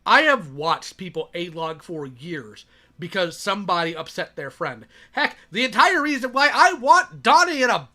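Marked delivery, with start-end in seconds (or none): 5.1-7.9 higher, louder fired-up rant; loud vengeful outburst; heated rant. Real, not acted. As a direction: raise it up with real grudge. Ranting about Donnie.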